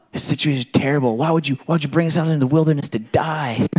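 hammed-up grumbling prayer; a lightly whiny believer; mock complaining.

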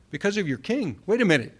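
puzzled double take. Acted. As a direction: repeat it as if it has just sunk in. Acts out a double take at verse.

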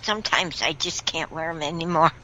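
talking without dentures; gummy, toothless speech. Real, not acted. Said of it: "Just so you know why I'm talking like I'm talking".

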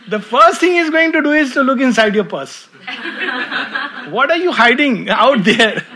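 high and loud, laughing through it; amused mock accusation; laughing tease. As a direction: tease the hider while chuckling. Imagined God checking the purse.

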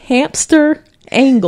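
each word drawn out and clear; slow and clear. Shown as a demonstration. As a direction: say it slowly so they catch it.

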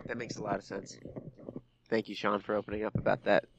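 soft, hushed mock solemnity; mock-tender sincerity. Co-host thanking Sean for opening up, softly mock-sincere. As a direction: thank him gently, as if after a confession.

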